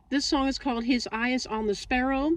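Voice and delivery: lisping through a swollen tongue; careful speech around a sore tongue. Real, not acted. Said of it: "swollen tongue here".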